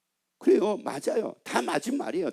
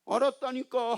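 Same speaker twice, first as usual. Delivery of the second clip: mild sulky retort; 5 semitones higher than usual. Retold or imitated. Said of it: "걔가 어떤 반응을 보입니까?".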